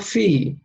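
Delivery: "fi" with an ee vowel, teeth brought close; kasra ee vowel. Shown as a demonstration. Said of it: "Fa with kasra".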